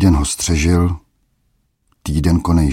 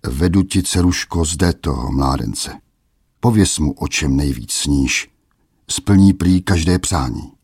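mocking yet wistful. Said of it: "Znělo to výsměšně, ale i tesklivě".

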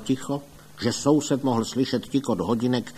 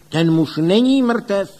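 loud, higher and slow, each word resounding; ringing call; 9 semitones higher, 8 dB louder than usual. A narrator's reading. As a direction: proclaim it over the whole crowd. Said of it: "hlasem k neuvěření širokým a zvučným". (zvučně a pomalu volá)

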